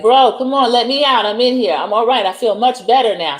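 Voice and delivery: a hint of a turned brother coaxing to be let out; begging Stack. Stack begging through the door.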